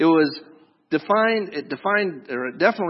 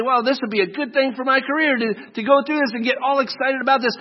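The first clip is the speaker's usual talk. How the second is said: excited; 7 semitones higher than usual. Retold or imitated. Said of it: "get all excited to say".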